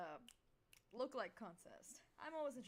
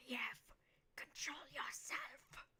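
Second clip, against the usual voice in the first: whispering axe; 3 semitones higher, 7 dB louder than usual. Acted. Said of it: "your axe is whispering to you".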